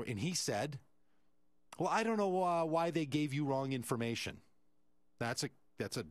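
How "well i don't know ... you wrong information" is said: dismissive manager. Retold or imitated. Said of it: "Dancy kind of answer".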